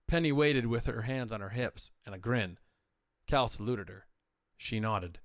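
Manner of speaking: steady audiobook narration voice; story narration. A narrator's reading. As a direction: tell the space adventure evenly, like reading aloud.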